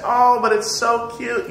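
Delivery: mock doting over a toddler; doting parent. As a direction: coo like a parent charmed by a tantrum. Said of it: "You say".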